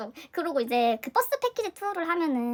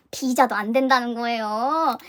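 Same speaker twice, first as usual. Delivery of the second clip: slow, louder, stretched-out ending; exasperated complaint; 2 semitones lower, 5 dB louder, much slower than usual. Retold or imitated. Telling how another card was refused, drawn-out exasperation. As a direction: drag the last word out in disbelief.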